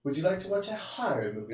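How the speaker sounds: soft, laughing mock seduction of a wife; politely hammed-up invitation with affected 'horror'; mock sophisticated. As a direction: play up the fancy pronunciation. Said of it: "Does your wife like when you say that?".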